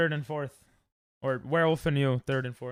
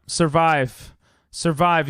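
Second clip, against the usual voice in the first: urging; 7 dB louder, much slower than usual. Real, not acted. Urging herself on in game.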